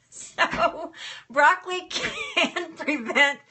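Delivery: breaking up with laughter mid-phrase; giggly goofball; giggling. Real, not acted. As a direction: laugh through the words, high and slow. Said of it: "I'm such a goofball today".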